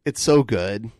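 breathy whisper of delight. Real, not acted. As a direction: whisper it lovingly. Hushed praise of the hold music.

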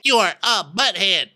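high, insistent mock declaration; Sutton. Sutton defending herself to Diana, high insistence. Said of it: "you be Sutton".

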